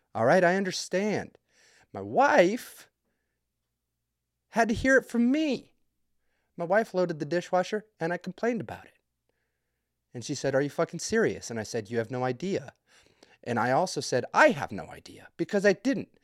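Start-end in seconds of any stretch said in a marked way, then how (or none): none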